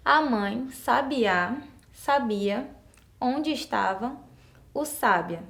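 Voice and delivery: sabiá and sábia stressed wrongly; slow demo of the last option; slow wrong reading. Shown as a demonstration. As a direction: read slowly to show it makes no sense. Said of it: "vamos conferir a última alternativa".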